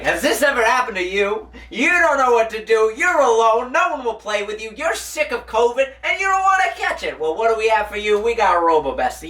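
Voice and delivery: hyped-up sales pitch, voice climbing; infomercial pitch. Retold or imitated. Pitching a product to the teacher, hyped infomercial voice. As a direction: sell it like a late-night TV ad. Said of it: "I'm giving it the whole Francis Shazam".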